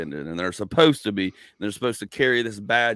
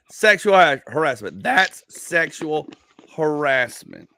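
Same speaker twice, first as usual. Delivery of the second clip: loud, high retold yell of outrage; a hammed-up yell of "sexual harassment"; mock yell; 7 semitones higher, 7 dB louder, slower than usual. Offended audience member yelling at the comedian, hammed up. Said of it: "She yells out".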